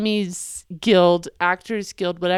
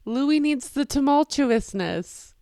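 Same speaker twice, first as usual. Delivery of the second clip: ordinary talk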